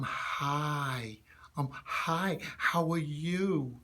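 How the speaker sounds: put-on airy, whispery little-kid voice; younger kid. Shown as a demonstration. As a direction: let lots of air into it like a small child. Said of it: "sound a little more like a younger kid".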